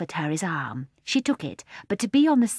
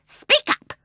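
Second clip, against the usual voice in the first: impatient order; 7 dB louder than usual. A narrator's reading. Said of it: "said the first seal".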